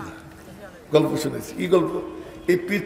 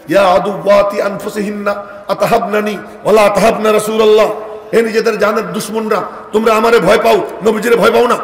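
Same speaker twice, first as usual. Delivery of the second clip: scolding the wives; 3 semitones higher than usual. Retold or imitated. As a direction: rebuke them from outside the curtain. (পর্দার বাইরে থেকে বিবিদের হালকা ধমক)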